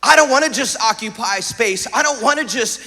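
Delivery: earnest, driving sermon delivery; emphatic preaching. Real, not acted. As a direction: preach it with punch on the key words. Preaches with force to congregation.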